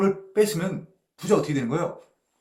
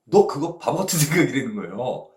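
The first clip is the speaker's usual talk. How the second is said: God's rebuke; 5 dB louder than usual. Retold or imitated. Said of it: "이런 얘기예요".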